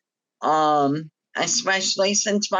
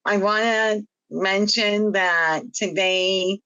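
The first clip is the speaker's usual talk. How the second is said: hypernasal voice. Real, not acted. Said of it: "my voice is a little hypernasal".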